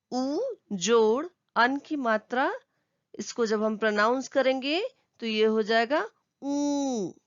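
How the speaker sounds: ऊ said as a long nasal ऊँ; teacher modelling the nasal ऊ; nasal sound demo. Shown as a demonstration. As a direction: push the ऊ out through the nose. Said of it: "नाक से ध्वनि निकालनी है".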